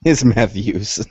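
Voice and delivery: slow deliberate confirmation. Shown as a demonstration. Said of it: "Did you say meth use or nephews?".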